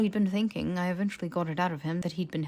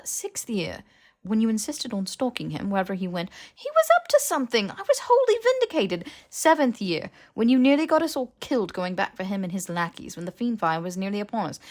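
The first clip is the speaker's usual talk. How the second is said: much higher, louder exasperated rant; heated scolding; 4 semitones higher, 7 dB louder than usual. Acted. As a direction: tear into him, fed up. Hermione's heated list.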